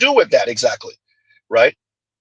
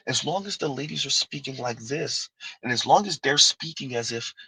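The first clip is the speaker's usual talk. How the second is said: hushed and unhurried; soft tone; 6 dB quieter than usual. Shown as a demonstration. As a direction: drop into a mild lady's tone. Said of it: "this tone right here".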